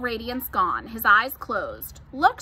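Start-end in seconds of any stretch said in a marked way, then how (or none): 2.1-2.4 higher, louder cry of alarm; mild scream. A narrator's reading. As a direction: call out in alarm, short of screaming. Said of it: "screamed Fern".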